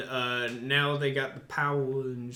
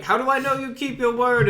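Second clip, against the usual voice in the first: White Witch; 10 semitones higher, 7 dB louder, faster than usual. Retold or imitated. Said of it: "And then she's like".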